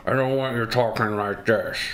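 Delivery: imitating muffled mumble; mock tight-jawed mumble; mumbling. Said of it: "I'm not gonna listen to you mumbling".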